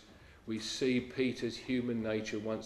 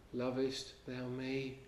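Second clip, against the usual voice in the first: soft, tender question; asked gently; 6 dB quieter than usual. Acted. The Lord gently asking Peter on the beach, soft and tender. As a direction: ask it gently and much softer. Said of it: "asks so gently".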